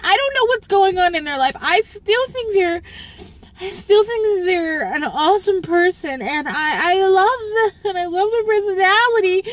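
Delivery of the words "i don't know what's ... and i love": near tears. Real, not acted. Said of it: "It just hurt".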